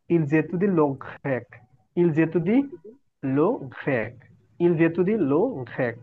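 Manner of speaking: "il jeudi le grec" said with a linking z, as "il-zétudie"; slow teacher's model of "il jeudi le grec", z joining the first words; liaison. Shown as a demonstration. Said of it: "জয়ের মতো উচ্চারণ করব".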